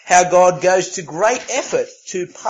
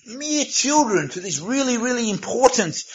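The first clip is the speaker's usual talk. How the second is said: mock reverence, higher pitch on "really, really important"; sarcastic; 5 semitones higher than usual. Shown as a demonstration. Preacher mocking the disciples' view of children, sarcastic. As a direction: say it with pointed irony. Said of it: "I'm being sarcastic".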